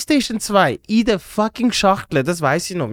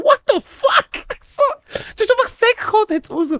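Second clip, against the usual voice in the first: mock shock; 14 semitones higher than usual. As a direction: drag out the shock. Retold shocked reaction.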